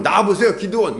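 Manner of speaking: mock furious shout at the door; mock angry summons. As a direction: pound on the door and yell for him, half in jest. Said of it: "막 문 두드리면".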